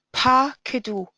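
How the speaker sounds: Pakedu with a long a in "Pa"; open first syllable. Shown as a demonstration. Teacher explaining an open syllable, long a in Pakedu. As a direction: hold the open "Pa" of "Pakedu", keeping it a. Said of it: "because this is an open syllable".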